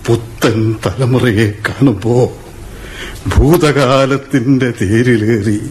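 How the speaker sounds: slow, low, musing voice-over; reflective narration. A narrator's reading. Narrator looking back at the new generation, slow reflective voice-over. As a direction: look back on the past slowly, as if remembering.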